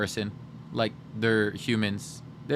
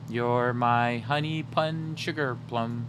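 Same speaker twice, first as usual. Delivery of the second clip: pet names; 2 semitones lower, 3 dB quieter, slower than usual. Real, not acted. Cooing to the pet.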